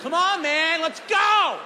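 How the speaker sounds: high, shouted taunt; hammed-up bravado; mock eager challenge. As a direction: goad him, grinning. Taunting driver.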